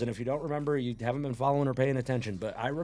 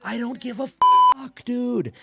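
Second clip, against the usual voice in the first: louder, higher burst of exasperation; emphatic outburst; 7 semitones higher, 9 dB louder, slower than usual. Real, not acted. Lifting fan brushing off a missed grip, loud outburst. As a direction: burst out loudly, brushing it aside.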